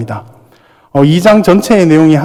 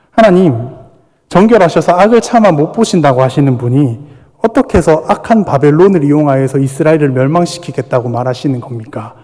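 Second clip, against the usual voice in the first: protesting prophet. Retold or imitated. Habakkuk argues with God about using Babylon, mild protest. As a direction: challenge God, half in earnest. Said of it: "하박국이 따집니다".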